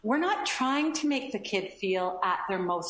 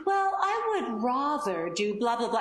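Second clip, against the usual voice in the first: mock-formal child's reply, pitched up; put-on formal pedantry; pedantic; 3 semitones higher than usual. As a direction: imitate an overly proper little pedant. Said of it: "or just pedantic language".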